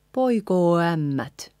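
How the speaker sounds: poikoo ämmät joined, O gliding into Ä; no break between poikoo and ämmät; linked vowels. Shown as a demonstration. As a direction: run poikoo straight into ämmät.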